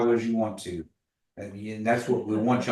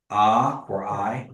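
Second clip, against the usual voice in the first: A said with a falling tone; slow falling tone on A; 3 dB louder, much slower than usual. Shown as a demonstration. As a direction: let the pitch drop on A. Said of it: "the tone's going down".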